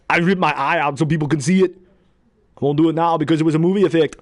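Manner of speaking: lightly voiced Austrian accent, boasting; Austrian-accented Arnold talking to Rambo; Arnold impression. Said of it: "The way I did it was this".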